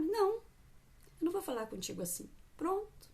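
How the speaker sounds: firme e curto, pondo limite; mãe firme. Shown as a demonstration. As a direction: diga não com firmeza. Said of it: "Não deixa eu desafiar". (mãe firme recusando o desafio da filha)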